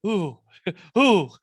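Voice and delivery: laughing mock Minnesota "Ooh, ooh"; Minnesota accent. Host mocking friend's Minnesota accent, laughing in Minnesota accent.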